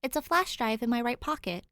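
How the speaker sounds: a hint of an eager ghost; ghost boy voice. Ghost speaks in story.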